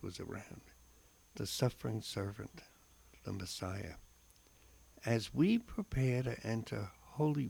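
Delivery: slow, solemn reflection read aloud; devotional reading. Acted. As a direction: read it like a heartfelt homily. Reads a scripture reflection.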